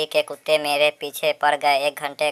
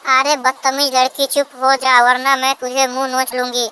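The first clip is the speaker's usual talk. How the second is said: very high-pitched quarrelling mother-in-law; threatening mother-in-law; 9 semitones higher than usual. Acted. Mother-in-law warns daughter-in-law to speak politely, threatening. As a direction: threaten her in a high put-on voice.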